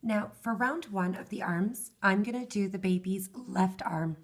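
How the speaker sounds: hoarse, worn-out voice; hoarse from losing her voice. Real, not acted. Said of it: "I keep losing my voice".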